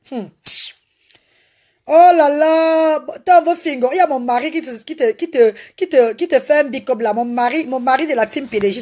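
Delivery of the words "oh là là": drawn-out oh là là. Real, not acted. Drawn-out exclamation of delight.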